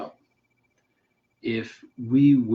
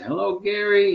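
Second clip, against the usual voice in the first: put-on Nigerian accent; 10 semitones higher, 4 dB louder than usual. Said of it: "they'd have that accent".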